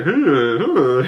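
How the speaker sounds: odd little mock "huh, huh"; creepy hammed-up huh sounds; weirdo noises. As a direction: imitate a weirdo's vacant chuckle. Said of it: "like being a weirdo".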